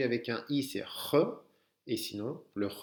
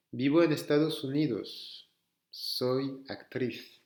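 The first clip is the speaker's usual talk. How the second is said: slow careful reading. Shown as a demonstration. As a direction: read the Spanish slowly and clearly for learners. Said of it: "je vais lire un texte".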